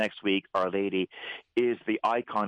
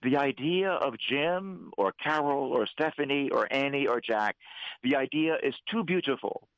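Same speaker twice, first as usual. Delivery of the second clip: raised, earnest voice of God the Father, climbing higher toward the end; God pleading for his children; 6 semitones higher than usual. Retold or imitated. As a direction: plead like a father who longs to be loved back. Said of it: "But he said".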